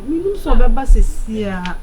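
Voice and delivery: loud desperate insistence; loud cry. Acted. Accused man insists he knew, crying out loudly.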